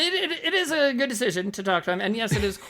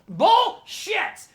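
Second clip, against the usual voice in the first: sudden loud high bullshit; loud scoff; 12 semitones higher, 4 dB louder than usual. Real, not acted. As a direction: blurt it out loud in disbelief. Scoffing at baby praise.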